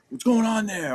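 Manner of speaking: high, loud imitation of a sergeant; retold urgent demand. Platoon sergeant asking for a report, retold urgent demand. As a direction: call out as if over the radio.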